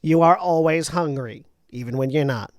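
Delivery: scolding Boston-Jersey mother; Jersey mom laying down the law. Acted. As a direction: chide a child in a broad Boston-Jersey accent. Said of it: "Boston Jersey mom".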